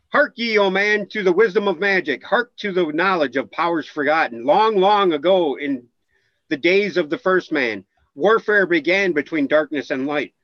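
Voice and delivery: solemn, measured reading of ancient lore; epic fantasy narrator. Acted. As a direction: intone it like an old prophecy. Reads ancient text aloud.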